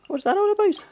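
high, loud mock cockney line; playful cockney read; put-on accent again. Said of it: "read it in that accent".

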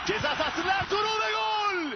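screaming football commentator. Real, not acted. Goal call in live commentary.

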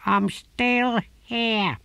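deadpan divine sarcasm; the tortoise god to the gardener; dry tortoise god. A narrator's reading.

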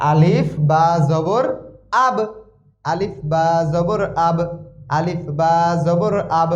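"আব" as one closed syllable ending on a vowelless b; joined pronunciation. Shown as a demonstration. Teacher drilling learners on joined letters, spelled-out "আলিফ বা জবর আব". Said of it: "একক উচ্চারণ যুক্ত হয়ে আসবে".

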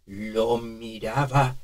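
put-on trembling, slow, soft old man; shaky old man voice. Shown as a demonstration. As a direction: let the voice tremble. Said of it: "y ahora vamos a temblar".

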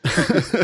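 short laugh. Real, not acted. Laughing at own accent joke.

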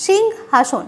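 "সিংহাসন" split as সিং, then হাসন; said in two parts. Shown as a demonstration. Teacher showing students the word is uttered twice, "সিংহাসন" broken after সিং. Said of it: "দুবার উচ্চারণ করছি".

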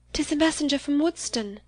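high-pitched, anxious guess; alarmed exclamation. A narrator's reading. Catherine, pale, guessing at the bad news, exclaiming. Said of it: "she exclaimed".

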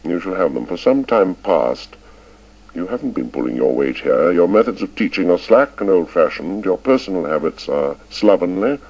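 cold, clipped headmaster reproof; icy. A narrator's reading. Headmaster scolding old Chips, icy and cutting. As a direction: lay it out coldly and deliberately. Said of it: "till at last Ralston said icily".

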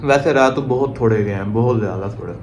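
eating and speaking together; talking while chewing rice. Real, not acted. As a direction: mouth partly full of food. Seen 0: Rice put in mouth at -3; jaw moving, lips working while speaking.

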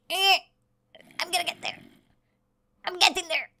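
a hint of a dawdling zombie, unbothered. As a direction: zombie plodding closer, half-hearted voice. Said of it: "He's like".

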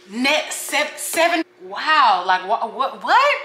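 stammering in shock, ending in a high what; stunned disbelief. Real, not acted. Vlogger hearing friend's net seventy-five deal, shocked squeal. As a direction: stumble over it, then squeal what.

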